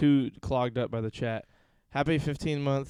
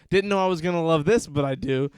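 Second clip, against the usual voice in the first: hammed-up delight, higher and louder; delighted surprise; 4 semitones higher, 5 dB louder than usual. Streamer acts out falling for a username, delighted surprise. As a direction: gush as if won over unexpectedly.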